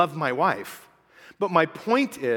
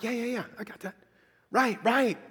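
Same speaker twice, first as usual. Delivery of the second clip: soft, higher, half-attentive brush-off; dismissive; 4 semitones higher, 5 dB quieter than usual. Retold or imitated. Reader who thinks he knows the Bible already, dismissive muttering. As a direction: skim past it as already known.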